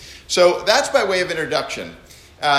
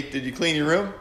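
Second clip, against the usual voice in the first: Chuck Norris; 4 dB quieter than usual. Retold or imitated. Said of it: "if you're Chuck Norris".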